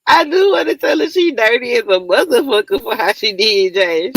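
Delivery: words breaking up with real laughter; can barely get it out for laughing; laughing through it. Real, not acted. Streamer laughing while roasting C B over Josh.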